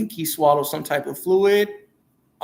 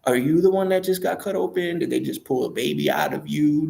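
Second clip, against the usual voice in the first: joking mom; 3 semitones higher than usual. Retold or imitated. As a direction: tease the crying newborn like a new mom. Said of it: "she starts joking and talking like".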